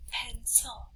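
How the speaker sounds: "Pencil" softly in two beats, pen and cil; quiet, separated chunks of "Pencil"; syllable by syllable. Shown as a demonstration. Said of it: "make sure you say the word".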